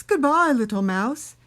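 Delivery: lightly voiced yelping fox; barking fox. A narrator's reading. Fox flees from mouse and Gruffalo, loud barked voice. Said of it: "barked Fox".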